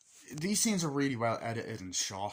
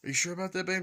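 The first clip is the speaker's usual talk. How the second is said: high, louder suspicious whine; jealous boyfriend; 9 semitones higher, 5 dB louder, faster than usual. Retold or imitated. Boyfriend quizzing Samantha about Cute Boy, high mock whine. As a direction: squeak it out like a jealous partner. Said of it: "It's like".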